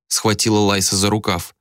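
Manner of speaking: ordinary delivery, nothing marked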